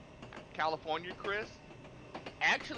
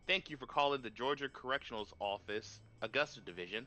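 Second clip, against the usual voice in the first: mock prison receptionist; 6 semitones lower than usual. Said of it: "I did this to a telemarketer".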